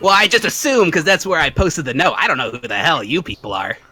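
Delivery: teasing rogue, swooping intonation; lightly voiced rogue Alvin. Alvin sizing up the adventurers he hired, lightly voiced. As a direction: size up the newcomers in character.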